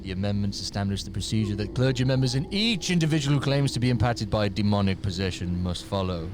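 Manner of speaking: low, ominous formal reading; mock-sinister proclamation; menacing put-on accent. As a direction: intone it menacingly, stretching out the last words. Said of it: "I'm having to make it look menacing".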